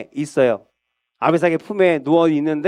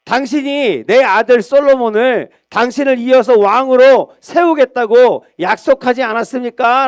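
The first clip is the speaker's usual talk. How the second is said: higher, louder pressing question; insistent reminder; 5 semitones higher, 4 dB louder than usual. Acted. Bathsheba presses the king on his promise, insistent. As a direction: hold him to his word.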